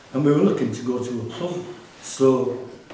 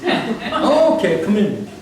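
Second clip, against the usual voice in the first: laughing doorman; 8 semitones higher, 5 dB louder, slower than usual. Retold or imitated.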